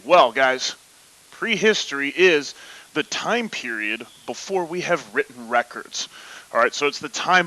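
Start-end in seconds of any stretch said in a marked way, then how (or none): 0.0-6.1 football announcer voice. Pretend. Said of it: "Nolan football announcer voice".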